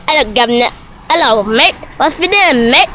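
playful mock-British greeting voice; lightly hammed-up British accent; put-on British accent. Shown as a demonstration. Vlogger showing off an accent, mock British. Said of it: "Hey, you wanna see my accent?".

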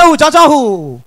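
hammed-up chronic stammer; comic stammerer fighting for the word. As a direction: get stuck on "Cha" and blurt a hooting "who". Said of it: "The first stammerer".

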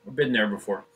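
talking through a mouthful; words round a bite of food; mouth full. Acted. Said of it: "with my mouth full".

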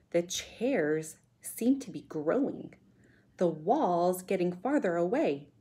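put-on measured read-aloud for children; story narration. A narrator's reading. Teacher reading a chapter to pupils, storytelling voice. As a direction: tell the adventure clearly, with suspense.

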